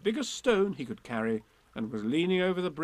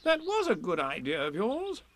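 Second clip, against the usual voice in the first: raised, approving rabbit voice; kindly compliment; 6 semitones higher than usual. A narrator's reading. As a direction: praise warmly and lightly. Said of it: "said Rabbit kindly".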